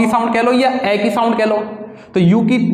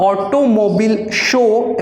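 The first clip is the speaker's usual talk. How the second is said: slow dictation; much slower than usual. Shown as a demonstration. Dictating shorthand exercise.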